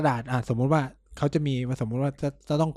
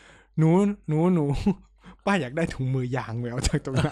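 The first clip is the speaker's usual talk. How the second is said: mock pushy auntie. Friend imitates auntie demanding gloves at hospital. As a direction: call the nurse like a demanding auntie.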